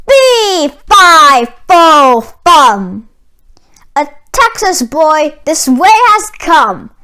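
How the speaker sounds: loud, hammy giant chanting fee fi fo fum; booming giant. Acted. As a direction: boom it out like a hungry giant.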